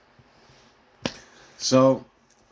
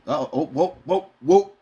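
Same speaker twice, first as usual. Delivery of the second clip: rising louder whoa, whoa; mock alarm; 5 semitones higher, 4 dB louder than usual. Acting out being hooked by the news. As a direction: get swept up in it. Caught by outrage bait.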